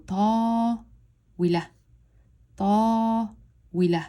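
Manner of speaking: stretched "ta", then "wi, la" as one quick unit; two-syllable blend. Shown as a demonstration. Teacher going from one syllable to two, blended. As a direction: hold "ta", pause, then join "wi, la". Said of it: "one syllable to two syllables".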